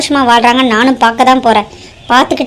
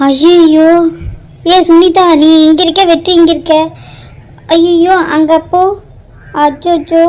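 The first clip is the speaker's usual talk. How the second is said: higher, flustered cries of alarm; panicked; 4 semitones higher than usual. Acted. Mother panicking over the swapped brides, alarmed and flustered. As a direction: panic as it sinks in. Panics seeing the wrong couple.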